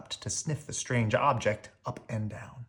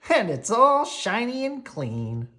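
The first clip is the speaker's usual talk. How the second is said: higher, slow delighted voice; happy and delighted; 9 semitones higher, 5 dB louder, slower than usual. A narrator's reading. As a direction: marvel at the clean boot. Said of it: "he cried happily".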